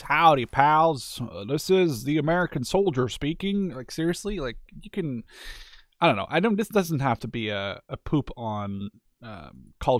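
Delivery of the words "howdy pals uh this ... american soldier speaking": slow hammed-up American drawl on howdy; a lightly voiced American accent; mock American voice. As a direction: play a cheesy American soldier, half joking. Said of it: "I can do an American voice".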